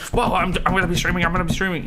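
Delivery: lightly voiced eager streamer; mock hyped streamer. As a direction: parody a streamer hyping themselves up.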